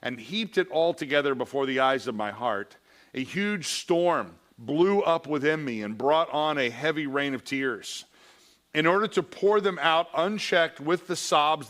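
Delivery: a lightly heightened reading voice; a preacher reading a memoir passage to his class; reading aloud. Acted. Reading Augustine's Confessions aloud.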